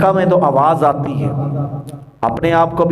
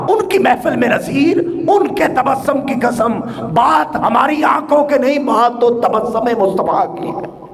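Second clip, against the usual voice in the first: raised, declaimed devotional couplet with comment; fervent verse preaching; 7 semitones higher than usual. Real, not acted. Preacher expounding Naseer's couplet on the Prophet's smile, fervent preaching.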